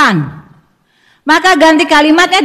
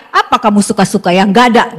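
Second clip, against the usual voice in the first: stern father; 5 semitones lower, faster than usual. Retold or imitated. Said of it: "Atau ayah".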